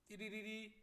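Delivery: high, sing-song ringtone noise; imitated phone ring. Teacher acting out mom's phone, imitated ringing. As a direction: trill it like a telephone.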